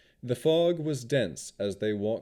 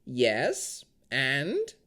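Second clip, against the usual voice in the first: unbothered; 5 semitones higher than usual. A narrator's reading. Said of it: "as if she didn't see the problem".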